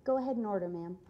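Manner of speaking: forced polite waiter voice; sweet but fake politeness; customer service voice. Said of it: "my customer service voice".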